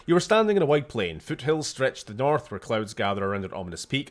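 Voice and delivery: reading room text aloud, storyteller; game narration. Acted. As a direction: narrate the scene like an adventure game. Reads text adventure aloud.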